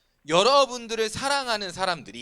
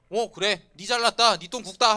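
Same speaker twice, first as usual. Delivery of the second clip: louder, higher mock-huffy comeback; sarcastic retort; 3 semitones higher, 7 dB louder than usual. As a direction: throw it back like a sulking boyfriend. Acts out angry retort to girlfriend. (비꼬듯 높고 크게 쏘아붙이는 말투)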